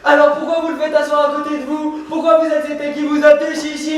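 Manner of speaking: heated, insistent reproach; aggrieved lover's protest; jealous accusation. Acted. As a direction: press the accusation without letting up.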